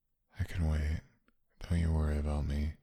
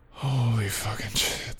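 amazed; 6 semitones higher, 4 dB louder than usual. Acted. Amazed loud exclamation.

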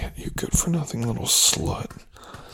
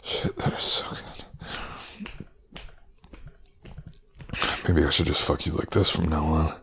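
whisper. Acted. Whispered possessive talk.

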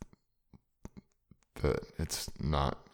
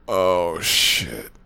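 ecstatic cry; 3 semitones higher, 11 dB louder than usual. Acted. Loud ecstatic exclamation.

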